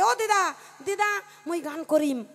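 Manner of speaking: put-on little boy tugging at granny with his call; child calling granny. Grandson calling granny during the weeping kirtan. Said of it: "ডেকে ডেকে কয়".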